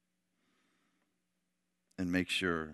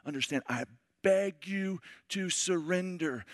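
calm pleading; 9 semitones higher than usual. Retold or imitated. Tom Hanks begging the pirate to surrender, earnest plea. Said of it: "He goes".

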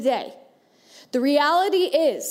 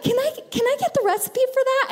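high, quick mock request; eager party guest; 11 semitones higher, faster than usual. Preacher imitating a guest asking for the bundt cake recipe, high mock-eager voice. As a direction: imitate an admirer asking, pitched well up.

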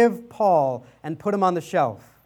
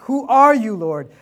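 mock scream back; 3 semitones higher, 5 dB louder than usual. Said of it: "he screams back".

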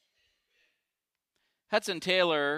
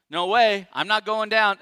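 loud higher protest; loud Peter; 4 semitones higher, 8 dB louder than usual. Retold or imitated. Preacher as Peter loudly refusing to fall. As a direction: blurt it out loudly. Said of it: "They hear Peter going".

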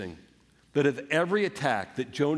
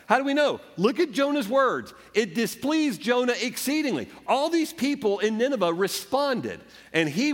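1 rising preaching fervor; 8 semitones higher than usual. Real, not acted. Preacher building intensity.

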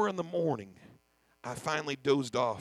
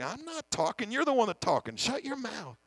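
higher, firm rebuke; stern divine voice, mildly voiced; God rebuking; 7 semitones higher than usual. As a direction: speak as God telling him to hush. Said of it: "And God's like".

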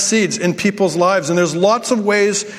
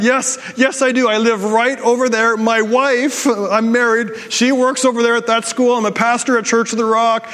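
higher-pitched, mildly flustered reassurance; awkward over-explaining; 4 semitones higher than usual. Retold or imitated. Man assuring a stranger he's married, mildly flustered. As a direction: retell an awkward bid to seem harmless. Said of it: "whatever I can to try to make this less weird".

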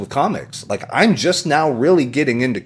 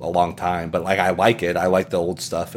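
soft mock mumble; 5 semitones lower, 7 dB quieter than usual. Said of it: "I was like".

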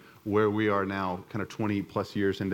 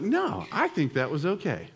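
mock innocent; 5 semitones higher than usual. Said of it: "I sat there and I was like".

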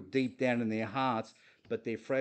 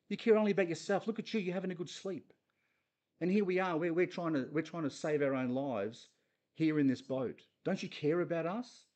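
accusing, sulky guilt trip; guilt-tripping; 4 semitones higher than usual. Acted. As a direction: make him feel guilty. Acted guilt-trip quarrel.

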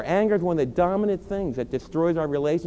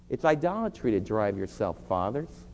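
ordinary talk, nothing marked

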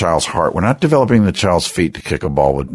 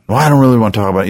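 put-on sulky teen; 4 semitones higher, 4 dB louder, much faster than usual. Son refusing to talk.

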